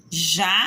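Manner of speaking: "janela" split JA... NE... LA; syllable by syllable. Shown as a demonstration. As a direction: say "janela" as three separate beats with pauses. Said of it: "saiu o som da minha voz".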